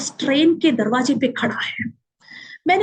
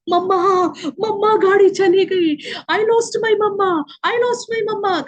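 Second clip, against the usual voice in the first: put-on drawn-out, higher wailing of a lost child; imitating child crying; 5 semitones higher, slower than usual. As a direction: mimic a little boy sobbing for his mother, stretching the words. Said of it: "चिल्ला चिल्ला के रो रहा है". (रोते हुए बच्चे की नकल, ऊँची और खिंची हुई आवाज़)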